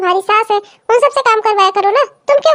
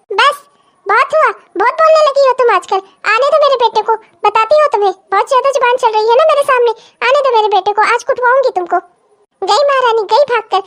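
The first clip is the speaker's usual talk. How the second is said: angry scolding; 2 semitones higher than usual. Acted. Mother-in-law threatens the talkative bhabhi, angry. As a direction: put the daughter-in-law in her place.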